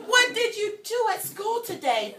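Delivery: high, cheery mom voice; mom's voice. Acted. Pete's mom asks him after school, high and cheerful. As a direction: ask like a curious mom. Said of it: "Pete's mom asked him".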